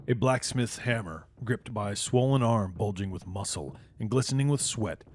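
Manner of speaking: measured, evocative scene-setting read; game master narration. A narrator's reading. Game master setting the scene for players, in a storyteller's read.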